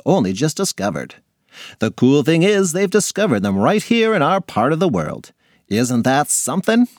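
put-on a chatty teacher explaining to kids. Teacher addressing science class.

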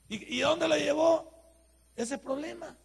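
preacher at full force, loud and slow; loud preaching. Real, not acted. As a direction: hammer the question home. Preacher's climactic question.

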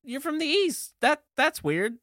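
high-pitched mock surprise; baffled reaction. Visitor meeting a Southerner without the accent, mock bafflement. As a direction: act out puzzled disbelief. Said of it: "You're like".

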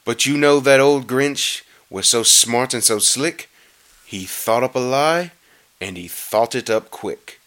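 measured rhyming read, softening at the end; storybook narration. A narrator's reading. Reader telling of the Grinch's quick lie, storybook narration. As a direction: read the verse like a knowing storyteller.

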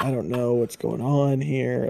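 near-silent, slow whisper; under your breath, unsure; hushed whisper. Retold or imitated. Awkward at expo, retold thought.

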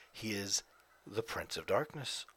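lightly voiced singer impression, rising; a hint of the singer's voice building up; impression of a singer. Talking about the singer, slips into a light imitation of his voice. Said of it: "I'm talking like him now".

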